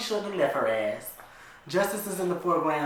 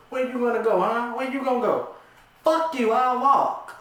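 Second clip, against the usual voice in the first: high, loud angry back-and-forth; heated shouting; 9 semitones higher, 6 dB louder than usual. Acted. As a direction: fling the words at each other. Shouting match in the truck.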